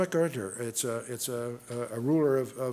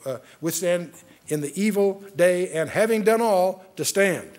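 solemn, measured reading of the verses; scripture reading. Acted. Preacher reading Ephesians to his flock, solemn reading. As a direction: proclaim the text like holy writ.

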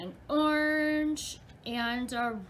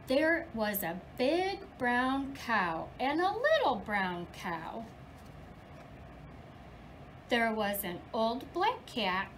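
lively storybook reading for little ones; reading to children. Acted. Teacher reading The Big Red Barn to her class, lively storybook voice. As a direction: read it like story time in class. Teacher reads picture book aloud.

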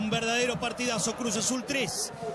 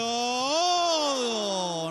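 loud cry at a near miss; shocked gasp; 3 semitones higher, 4 dB louder than usual. Real, not acted.

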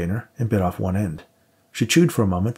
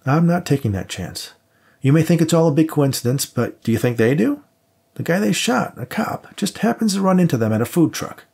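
higher pitched, pressing partner; insistent cop partner; 8 semitones higher than usual. Acted. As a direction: push the point, worried and urgent. Max voiced as insistent partner.

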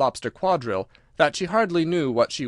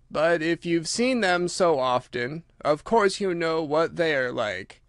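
slow, drawn-out creature voice, slightly raised; Mock Turtle, ponderous; 4 semitones higher, slower than usual. Mock Turtle questions Alice about whiting, slow and ponderous. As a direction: drag every word out ponderously.

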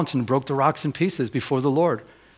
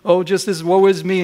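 higher, self-pitying retold complaint; imitated woe-is-me pleading; mock pity party; 5 semitones higher, 3 dB louder than usual. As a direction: moan to God in mock despair. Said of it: "having a pity party".

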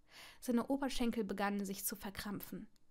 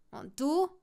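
louder, spat retort; spat back; 3 semitones higher, 5 dB louder than usual. Acted. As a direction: spit it right back. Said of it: "spie Draco zurück".

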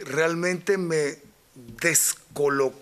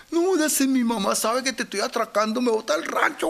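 robber's voice; 7 semitones higher than usual. Retold or imitated. Robber speaks about his mom.

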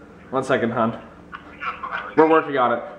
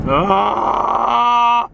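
surprised shout; 9 semitones higher, 4 dB louder than usual. Real, not acted. Startled shout.

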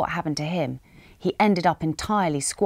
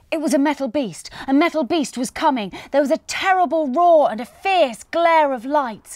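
higher and louder, building terror; rising panic; 9 semitones higher, 4 dB louder than usual. Acted. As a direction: read it like danger is rushing closer. Car bearing down on Patch.

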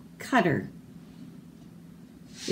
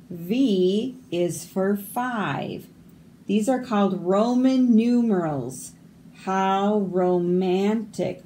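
slow, deliberate read-aloud with swooping tune; picture-book reading; 2 semitones higher than usual. Acted. Reader presenting the Roman numeral page, picture-book reading. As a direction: linger on the key words for children.

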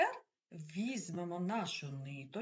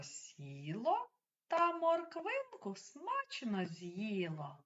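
measured rhyme with a pause after each movement; children's rhyme recital. Shown as a demonstration. Teacher reciting while children act out movements, measured rhyme. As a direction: recite it line by line, stretching the action words. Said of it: "Я буду читати віршик".

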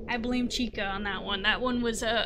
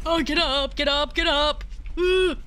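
loud, higher frantic urging; real panic urging; urgent get up; 3 semitones higher, 4 dB louder than usual. Real, not acted. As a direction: push yourself up in a hurry. Urgent scramble during game.

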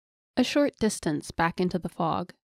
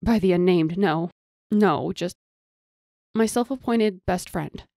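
louder indignant retort; 4 dB louder than usual. Acted. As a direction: bristle at the idea. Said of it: "sudden indignation".

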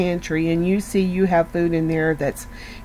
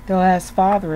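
ordinary talk

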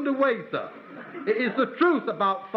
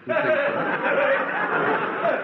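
laughing through words; 4 semitones higher, much slower than usual. Real, not acted. Laughing mid-story to interviewer.

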